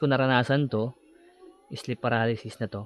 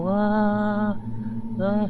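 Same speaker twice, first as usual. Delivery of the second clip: high, strained yelling in terror; mock scream; 9 semitones higher than usual. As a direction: scream as if trapped in the dark. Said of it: "Sigaw-sigaw na ako".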